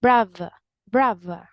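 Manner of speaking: brother with the demonstrated dialect th; demonstrated accent sound. Shown as a demonstration. Teacher modelling a dialect word, demonstrated accent sound. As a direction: say brother twice as a pronunciation model. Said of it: "you're going to say".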